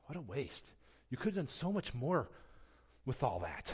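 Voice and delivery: quiet self-reproach. Retold or imitated. Preacher hearing himself in the disciples, quiet rueful echo. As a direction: turn the complaint inward, quietly. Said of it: "I hear myself in that".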